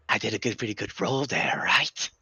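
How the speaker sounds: a teasing imitation of the player, quick and light; mock player voice. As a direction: mimic the player's proud question. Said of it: "And you go".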